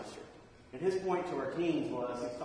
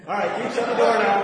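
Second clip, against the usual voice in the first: loud, higher barked command; gruff order; 6 semitones higher, 12 dB louder than usual. Retold or imitated. Man on the toilet telling the teen to shut the door.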